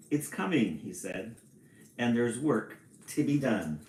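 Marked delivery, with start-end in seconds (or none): 0.1-0.8 lightly voiced leprechaun, lifted in pitch; a hint of a storybook leprechaun; leprechaun imitation. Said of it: "at my best leprechaun". 2.0-3.8 lightly voiced leprechaun; a hint of a leprechaun, read from a storybook; leprechaun imitation. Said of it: "at my best leprechaun".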